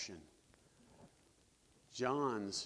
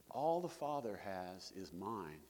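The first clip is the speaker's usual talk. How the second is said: slow and soft, without a hint of arrogance; humble, righteous; 4 semitones lower, 4 dB quieter, slower than usual. Shown as a demonstration. Preacher to the congregation, showing how Jesus says it humbly, slow and soft. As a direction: say "All the Father has is mine" slowly and softly, humbly, not boasting. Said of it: "Jesus can say it righteously, without arrogance".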